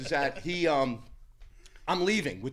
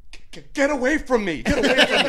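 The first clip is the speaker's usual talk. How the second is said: high, stammering get-away plea that gets louder; scared guy; 10 semitones higher, 7 dB louder than usual. Retold or imitated. The guy in the gym panicking as he approaches, high stammer. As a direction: mimic a frightened man backing off. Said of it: "and he goes".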